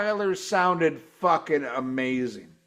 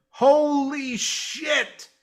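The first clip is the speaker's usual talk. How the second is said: stunned surprise; 8 semitones higher, much slower than usual. Real, not acted. Recalling surprise guest.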